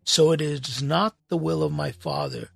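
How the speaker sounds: deliberate pulpit reading of Matthew; scripture reading. Acted. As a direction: read the Gospel aloud to the congregation. Reads scripture passage aloud.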